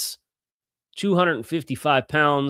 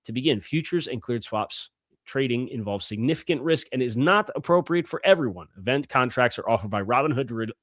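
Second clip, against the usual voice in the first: upbeat sponsor read, words pushed out cleanly; podcast host reading a meal-kit sponsor spot. Acted.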